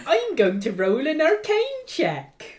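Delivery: put-on laughing through a Welsh accent; hammy Welsh accent. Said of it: "my great Welsh accent".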